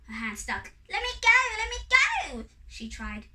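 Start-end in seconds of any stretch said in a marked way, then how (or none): 0.9-2.5 high, loud, quick plea; frantic high-pitched fairy yell; panicked fairy cry. A narrator's reading. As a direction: cry out high and fast to be released. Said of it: "she cried".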